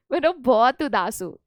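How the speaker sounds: sad words with a laughing lead-in; cheerfully claiming sadness. Shown as a demonstration. Teacher shows words not matching expression, amused false sadness. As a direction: say you're sad without sounding it. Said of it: "मैं बहुत उदास हूँ और मैं कहती हूँ".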